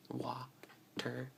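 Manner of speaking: water drawn out slowly, T softened; local water. Shown as a demonstration. Local speaker demonstrating her water. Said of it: "water is two syllables".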